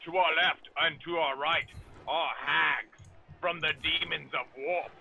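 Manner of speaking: a hint of a gruff space marine. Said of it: "so I can totally pull off a Space Marine voice right now?".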